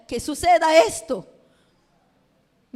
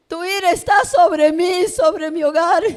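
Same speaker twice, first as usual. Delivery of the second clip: retold anguished plea; 3 semitones higher, 5 dB louder than usual.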